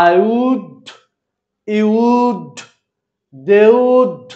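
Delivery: would said in full and stressed in each phrase; strong form of would. Shown as a demonstration. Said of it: "যখন তুমি strong form করবে".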